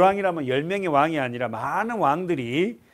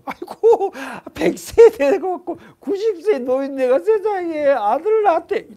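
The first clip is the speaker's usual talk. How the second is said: mocking laughter; 13 semitones higher, 9 dB louder than usual. Villagers laughing at old parents.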